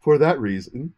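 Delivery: mock solemn public apology; hammed-up sincere apology; fake apology. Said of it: "N P R serious tone".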